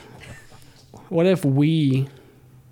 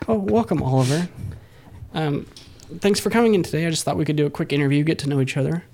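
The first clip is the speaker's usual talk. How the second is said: mock interviewer; 2 semitones higher, faster than usual. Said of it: "If I said I wanted a British co-host".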